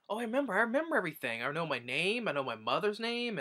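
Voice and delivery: high, fast burst of sudden remembering; excited recall. Retold or imitated. Amnesiac heroine suddenly remembering everything, high and fast. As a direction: blurt it out, giddy with memory coming back. Heroine regains her memory.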